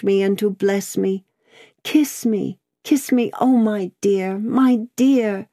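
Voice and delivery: fervent, emotional appeal; pleading daughter. Acted. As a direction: plead on your knees, building toward "Kiss me". Daughter kneels, appealing to her father.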